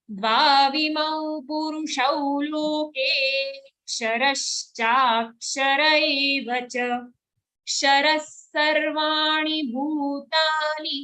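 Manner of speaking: slow chanted Sanskrit verse, sung out line by line; measured shloka chant; verse recitation. Shown as a demonstration. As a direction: chant it like a teacher leading the class.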